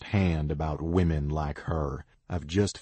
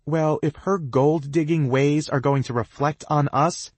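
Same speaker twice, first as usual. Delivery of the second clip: indignant; 10 semitones higher, 6 dB louder than usual. A narrator's reading. Girl argues back.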